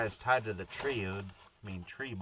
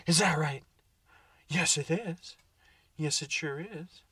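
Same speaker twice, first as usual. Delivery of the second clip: put-on dog baby talk; 6 semitones higher, 4 dB louder than usual.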